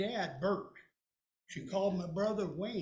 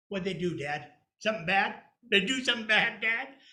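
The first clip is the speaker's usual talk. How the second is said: put-on louder, eager kid questions; eager boy; 10 dB louder than usual. Little boy asking dad what siblings did. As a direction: beg to hear the gossip.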